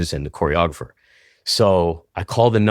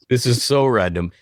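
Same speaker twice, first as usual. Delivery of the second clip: higher-pitched imitation of a puzzled receptionist; baffled mock reaction; 4 semitones higher than usual. Receptionist wondering about a random caller, baffled. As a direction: voice her bewilderment, pitched up.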